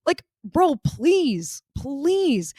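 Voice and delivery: drawn-out, exasperated pleading; exasperated plea. Real, not acted. Podcaster reacting to a character's awkward small talk, exasperated plea. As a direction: stretch each plea in exasperation.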